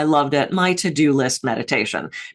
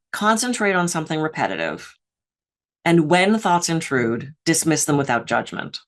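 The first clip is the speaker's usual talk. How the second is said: measured teaching. Retold or imitated. Quoting the meditation teacher's rules.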